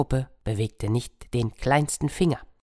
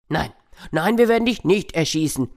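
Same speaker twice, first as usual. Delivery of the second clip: animals refusing; 3 semitones higher, 3 dB louder than usual. Acted.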